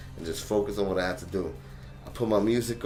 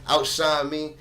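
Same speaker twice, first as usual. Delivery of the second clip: competitive outburst; 7 semitones higher, 8 dB louder than usual. Retold or imitated. Competing with a jogging hipster.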